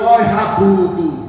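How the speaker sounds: loud angry rebuke of the demons. Retold or imitated. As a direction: scold them hard and loud. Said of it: "foi com raiva". (repreendendo com raiva)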